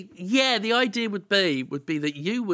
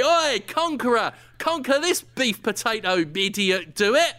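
raised mock challenge; defiant taunt; 4 semitones higher than usual. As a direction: call out the big oaf to dare him. Defiant taunt at acted conqueror.

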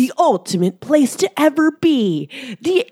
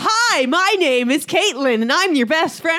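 higher, cheery booth greeter; convention greeter voice; 5 semitones higher than usual. Pretend. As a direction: greet fans like an eager booth host. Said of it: "give our listeners an audio experience of Comic-Con".

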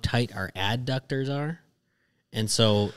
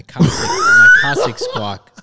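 laughing; 9 dB louder than usual. Real, not acted. Laughing through a slip.

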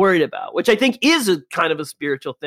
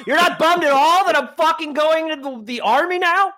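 high, incredulous mock son; the son asking his calm father why he isn't upset, high and incredulous; mock hurt son; 11 semitones higher than usual. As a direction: play the wounded son leaving for war. Son plays off to war.

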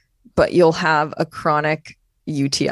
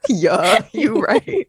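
imitated German accent, pitched up at the end; 4 semitones higher, much slower than usual. Teasing friend for the bad impression, German accent. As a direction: copy a silly German accent. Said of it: "That was my German accent".

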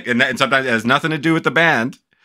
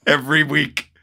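mock amazement; 4 semitones higher than usual. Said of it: "Everyone who sees it is like".

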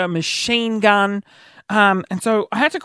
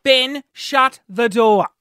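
firm repeated order; 5 semitones higher, slower than usual. Retold or imitated. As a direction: spell it out word by word. Repeats the order, less forcefully.

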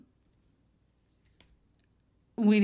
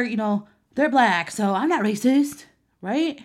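white dude voice; 3 semitones higher, 5 dB louder than usual. Retold or imitated. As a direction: play the flustered white dude who insists he's not racist. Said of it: "That's my white dude voice".

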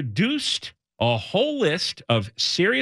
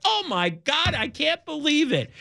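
mock laughing mayor; 8 semitones higher than usual. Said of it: "She's rocking back and forth like".

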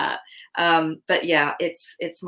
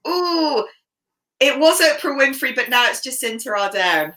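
much higher, bright ooh then louder answer; light up at the question; delighted; 8 semitones higher, 4 dB louder than usual. Real, not acted. Guest answering the host's role model question, delighted.

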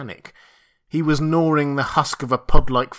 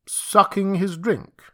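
uneasy question; 7 semitones higher, slower than usual. Acted. Montgomery alarmed.

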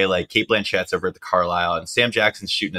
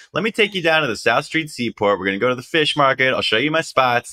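higher, eager street hustler voice; imitating Radio Man; 6 semitones higher than usual. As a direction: pitch it up and sell the tour. Radio Man voiced offering tour.

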